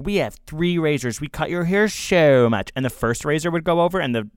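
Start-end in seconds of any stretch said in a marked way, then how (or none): 0.0-2.7 slow, raised commercial pitch; slow ad announcer voice. Retold or imitated. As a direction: sell it like a razor ad. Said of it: "it would be like".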